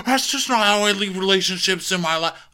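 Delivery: high, slowed mock defiance; mocking Shep rejecting advice, high and defiant. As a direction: dig in stubbornly. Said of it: "He's like".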